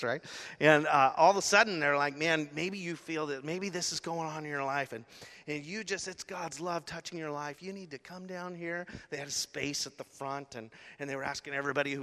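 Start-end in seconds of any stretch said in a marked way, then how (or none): 2.2-8.9 soft, coaxing invitation; gentle altar call. Retold or imitated. Band inviting listeners down to the front, soft coaxing. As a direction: draw them in softly, imitating a preacher.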